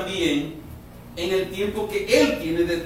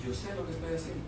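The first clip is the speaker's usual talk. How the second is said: soft, unhurried divine reassurance; calm God; 3 semitones lower, 13 dB quieter, much faster than usual. Acted. God on his throne reassures believers, soft and calm. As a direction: speak like a king at rest. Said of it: "Tranquilo en su trono".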